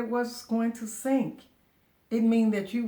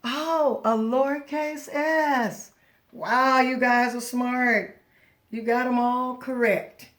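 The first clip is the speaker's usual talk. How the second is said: excited praise; 2 semitones higher, 6 dB louder than usual. Acted. Teacher praising the class for finding letters, excited. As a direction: cheer the kids on, really pleased.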